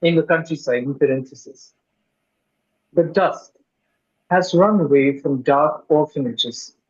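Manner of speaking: measured poem reading with deliberate pauses; poetry recital. Acted. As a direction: recite it phrase by phrase, weighting key words. Reads English translation of poem.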